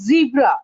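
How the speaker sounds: "zebra" as ZEE-bra; long EE in "zebra", falling; corrected pronunciation. Shown as a demonstration. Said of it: "It's Z".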